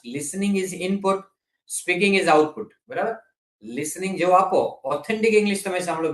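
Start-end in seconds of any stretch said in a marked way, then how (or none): 0.1-2.7 very slow, word by word; deliberate classroom pacing; slow emphatic teaching. Shown as a demonstration. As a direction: spell out the rule slowly for learners. Teacher stressing a key rule.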